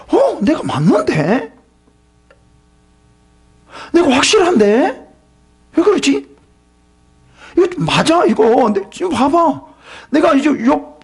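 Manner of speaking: Satan talking to himself, confused; puzzled Satan. Acted. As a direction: wonder aloud like a baffled tempter. Satan puzzled that Job resists.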